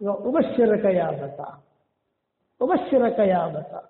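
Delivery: slow, low, lightly voiced comfort; son's good news. Son telling dying father the good news, slow and low. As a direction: deliver good tidings slowly to a dying father.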